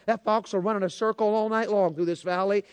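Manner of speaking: mock-mad grandfather venting, gradually rising; hopping mad. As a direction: imitate a fed-up hunter ranting about his dogs. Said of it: "he was hopping mad".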